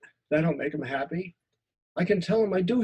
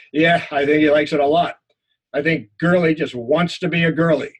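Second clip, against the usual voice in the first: sneering buddy; 6 dB louder than usual. Acted. Buddy joins the mockery.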